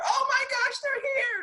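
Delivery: very high, shrieking imitated panic; mock freak-out. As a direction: squeal it like she's terrified they've arrived. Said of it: "she freaks out".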